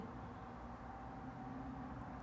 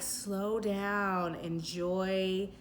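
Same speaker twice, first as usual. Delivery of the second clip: slowed right down, slightly softer; slow and calm; 3 dB quieter, slower than usual. Shown as a demonstration. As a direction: linger on each phrase as if unwinding. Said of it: "It's very, like".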